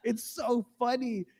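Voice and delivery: high, drawn-out mock breathless mirth; imitating helpless laughter. Man still laughing a minute later with his coworker, mock hysterics. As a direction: act as if still cracking up. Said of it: "I'm still laughing a minute later".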